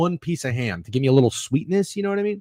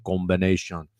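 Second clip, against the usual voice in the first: low, softer mock Jamaican accent; a rapper doing Jamaican; 8 semitones lower, 7 dB quieter than usual. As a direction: toss off the word in a fake Jamaican accent. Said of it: "this rapper talks like he's, uh, uh, Jamaican".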